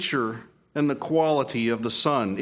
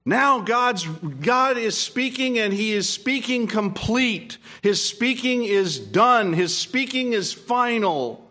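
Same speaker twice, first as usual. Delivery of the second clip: raised, slow preaching at full force; fervent pulpit delivery; 7 semitones higher, slower than usual. Acted. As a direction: proclaim it to the congregation. Preaching to the congregation.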